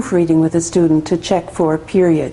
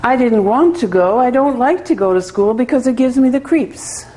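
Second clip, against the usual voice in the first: a higher, careful learner's read-through; student reading aloud; 5 semitones higher than usual. Retold or imitated. Teacher voicing her student reading her story aloud, a touch higher. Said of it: "she starts reading again".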